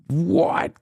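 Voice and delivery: hushed Midwestern what gives; whispered accent. Retold or imitated. Host quietly repeats the catchphrase, whispered. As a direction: tease under a laugh. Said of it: "What gives?".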